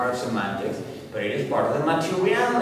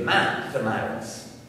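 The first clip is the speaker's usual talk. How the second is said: "mathematics" with the first syllable stressed. Shown as a demonstration. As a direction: hit the opening syllable of "mathematics". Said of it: "habit of stressing the first syllable".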